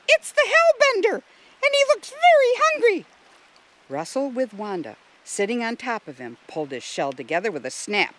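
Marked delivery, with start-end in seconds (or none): 0.1-3.0 very high, loud, frantic voice; alarmed yell. A narrator's reading. Wanda announcing the Hellbender's arrival, yelling. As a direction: shriek the warning at full pitch. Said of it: "Wanda yelled".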